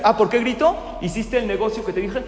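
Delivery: a boss mocks his manager's question; mocking angry retort. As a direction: throw his question back at him. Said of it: "le empieza a gritar".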